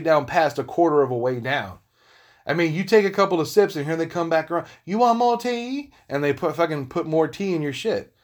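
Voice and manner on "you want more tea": high, drawn-out waiter's offer in a put-on Asian accent; slow, singsong mock Asian accent. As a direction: imitate an eager server with a mock Asian accent. Imitates Chinese restaurant server offering refills.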